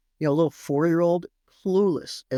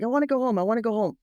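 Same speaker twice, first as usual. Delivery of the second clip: put-on whiny child; 5 semitones higher, much faster than usual. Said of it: "And he's like".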